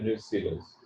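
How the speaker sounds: न्यूसिलस said as nyoo-si-lus, short i in the middle; correct pronunciation. Shown as a demonstration. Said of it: "मैंने तलफ़ुज़ किया है".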